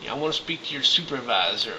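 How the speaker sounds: angry demand. Retold or imitated. To customs, demanding a supervisor angrily. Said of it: "I'm getting angry".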